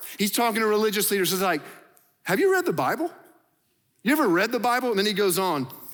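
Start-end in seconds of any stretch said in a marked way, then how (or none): 2.2-4.9 snarky, needling, smart-alecky tone. Retelling Jesus answering the religious leaders: imitating snarky Jesus. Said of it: "we get snarky Jesus right now".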